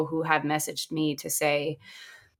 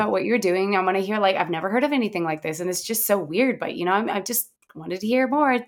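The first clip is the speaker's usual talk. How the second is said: friendly and polite; 4 semitones higher, faster than usual. Retold or imitated. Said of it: "she's very friendly and very polite".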